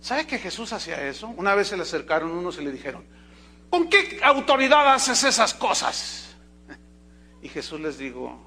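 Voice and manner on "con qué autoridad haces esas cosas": high, loud, slow confrontational voice; challenging accusers. Retold or imitated. Men confronting Jesus about his authority, loud and challenging. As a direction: demand an answer with hostility.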